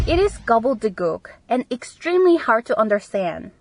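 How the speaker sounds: slow, careful teacher read; deliberate classroom dictation; slow model reading. Shown as a demonstration. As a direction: read it out slowly for learners. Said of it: "이거는 알아듣기가 너무 어렵다라고 할 때".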